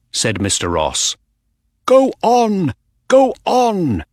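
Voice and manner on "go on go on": high, loud urging at the racetrack; cheering a runner home; excited urging. A narrator's reading. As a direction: urge the horse on, high and eager. Urging the horse on in race.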